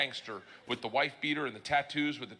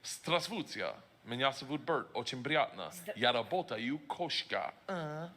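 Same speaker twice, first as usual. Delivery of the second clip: halting rehearsed Russian; slower than usual. Retold or imitated. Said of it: "I was gonna say".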